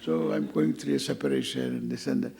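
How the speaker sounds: gloomy complaint. Retold or imitated. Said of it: "You should not say that".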